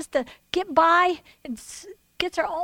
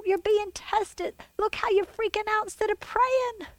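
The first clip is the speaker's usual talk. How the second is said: voicing God; 5 semitones higher than usual. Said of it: "the chase of the Lord going".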